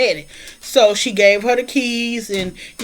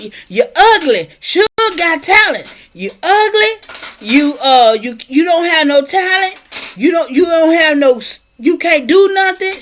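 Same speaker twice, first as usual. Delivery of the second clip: contemptuous insult; 5 semitones higher than usual. Retold or imitated. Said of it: "He's like".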